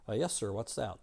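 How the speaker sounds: soft, polite little man; quiet deference to the big cowboy; little fella. Acted. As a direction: answer meekly, lightly in character. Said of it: "The little fella says".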